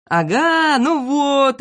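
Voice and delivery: high, gleeful gotcha. A narrator's reading. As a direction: crow with delight at catching someone out. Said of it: "обрадовался Незнайка". (обрадованно, торжествующе)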